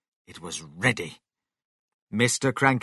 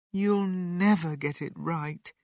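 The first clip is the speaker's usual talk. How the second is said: higher-pitched, mildly sad remark; 8 semitones higher than usual. A narrator's reading. Missus Cranky gives up on the medicine, sadly. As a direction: say it with a touch of sorrow. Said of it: "Missus Cranky said sadly".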